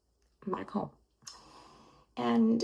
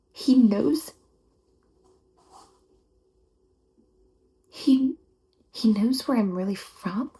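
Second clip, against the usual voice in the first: louder rising He knows, in shock; stunned disbelief; 3 semitones higher, 3 dB louder than usual. Acted. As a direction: repeat it as the shock lands. Learning about her birth parents.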